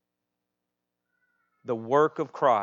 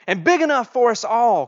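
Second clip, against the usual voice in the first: higher-pitched calling out, not a full yell; storybook cry; 11 semitones higher, 13 dB louder than usual. A narrator's reading. Youngest daughter adds to the blanket wish, mild cry. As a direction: pipe up as an eager child character. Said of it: "cried the youngest daughter".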